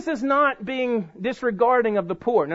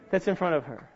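usual speaking voice

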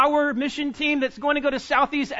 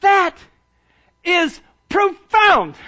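louder and higher, slow; loud slow proclamation; emphatic exclaim; 4 semitones higher, 6 dB louder, much slower than usual. Real, not acted. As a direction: proclaim it with weight.

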